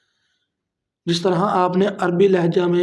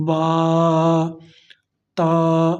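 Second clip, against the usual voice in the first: usual speaking voice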